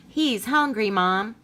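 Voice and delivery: put-on high, pleading little kid voice; a child coaxing mom, voice rising; eager child.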